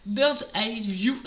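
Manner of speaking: slow English in a French accent. Real, not acted. Crafter apologising to viewers for her English, French accent. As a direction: read the English name slowly with your French accent. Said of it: "excusez mon accent anglais".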